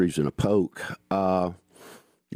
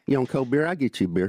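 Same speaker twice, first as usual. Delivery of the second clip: Southern dialect; 5 semitones higher, faster than usual. Shown as a demonstration. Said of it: "I can train you".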